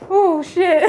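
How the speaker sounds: high laugh-shriek; shrieking jackpot winner. Real, not acted. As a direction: laugh and squeal. Laughing shriek after crack.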